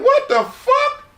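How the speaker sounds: amused disbelief. Retold or imitated. Retold reaction to the shouting.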